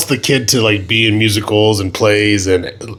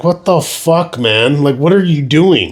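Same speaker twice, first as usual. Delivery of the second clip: mildly heated, raised-pitch demand; retold pissed-off; 5 semitones higher, slower than usual. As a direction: replay your annoyance with some heat. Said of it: "I was pissed".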